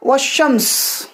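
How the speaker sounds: व शम्स read very slowly, syllable by syllable, with no ल sound; slow demo reading. Shown as a demonstration. Teacher showing students the written word, very slow demo reading. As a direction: read व शम्स slowly for the class and drop the alif lam. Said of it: "मैंने एराब भी लगा दिए हैं".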